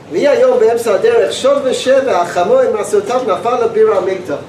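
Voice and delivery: fast Hebrew reading; fast Hebrew text reading; reading aloud. Acted. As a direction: rattle through the text quickly.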